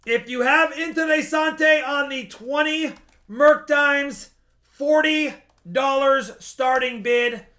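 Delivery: loud, slowed announcement of the lot; loud auction call. Real, not acted.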